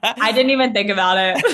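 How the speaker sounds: cracked up at the slip; laughing. Real, not acted. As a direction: say it through real laughter. Both amused at a verbal slip.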